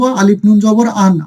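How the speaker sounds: slow model take of আলিফ নুন জবর আন; teacher spells আলিফ নুন জবর আন slowly; slow spelling. Shown as a demonstration. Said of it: "তাহলে আমরা কিভাবে বানান করব?".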